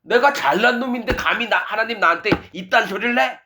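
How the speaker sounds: how dare you say this to me; haughty indignation. Acted. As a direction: act out a proud man taking offence at God. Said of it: "마음이 계속 높아져 있으니까".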